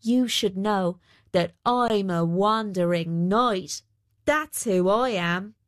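slow, self-declared wandering knight; a weaver lightly playing the knight, drawn out; lightly voiced proud weaver. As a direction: declare it slowly, with mock-knightly pride.

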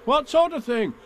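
put-on high-pitched boyish question; young boy's voice. A narrator's reading. Boy asks about the bees, high child voice. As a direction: ask it in a piping child voice.

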